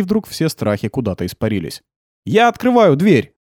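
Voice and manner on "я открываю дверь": called out loud and slow, pitched high. Acted. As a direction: announce it loudly through the door, slowly. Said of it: "громко сказал". (громко и медленно, высоким голосом)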